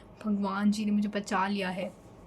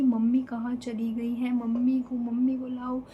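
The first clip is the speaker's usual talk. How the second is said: louder, upset calling for mum; crying out for mum; 5 dB louder than usual. Retold or imitated. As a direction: yell for mum like a hurting child. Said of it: "चिल्ला रही हूँ ऐसे कि". (रोते हुए ज़ोर से mummy को पुकारना)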